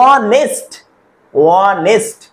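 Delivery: অনেস্ট said twice apart, opening on a vowel with no "h"; silent H. Shown as a demonstration. Teacher shows students the H is silent, অনেস্ট repeated with a vowel onset. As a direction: say অনেস্ট starting straight on the "o" sound. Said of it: "এইচটা silent".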